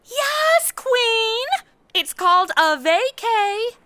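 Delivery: loud high-pitched sarcastic yes queen; sassy retort. Acted. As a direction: brush her off loudly. Teen brushing off the queen.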